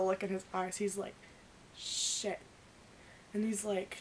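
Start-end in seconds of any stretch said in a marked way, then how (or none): 1.8-2.4 whispered curse; caught off guard. Retold or imitated. Patrick seeing both girls together, whispered curse. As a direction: breathe it out like he's been caught.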